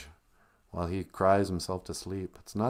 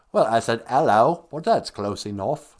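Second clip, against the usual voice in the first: British worm; 2 semitones higher, 6 dB louder than usual. Retold or imitated. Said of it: "because he was British".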